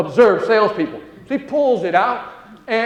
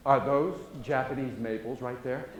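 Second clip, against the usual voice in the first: softer, lower, slow and calm; lightly voiced calm wife asking about the trees; calmly; 8 semitones lower, 10 dB quieter than usual. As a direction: ask sweetly, no urgency. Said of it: "Calmly, calmly says".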